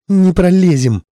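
high, loud panicked cry; desperate shout. Acted. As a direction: yell it in alarm. Pilot answers in panic.

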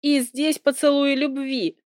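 high-pitched exclamation of disbelief; acted outburst, pitched well up; exclaiming. A narrator's reading. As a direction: cry out in mild exasperation. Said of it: "как я воскликнула".

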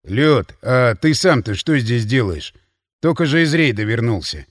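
heavy-tongued and sleepy; drunk Voron. Acted. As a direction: drunk friend asking lazily. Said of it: "Ворон ... пытаясь сфокусировать зрение".

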